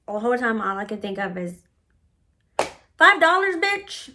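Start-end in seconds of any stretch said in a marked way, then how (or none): 3.0-4.1 high-pitched, indignant disbelief; mock-outraged question pitched way up; incredulous outburst. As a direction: blurt it out, scandalized by the pettiness. Acted incredulous inner outburst.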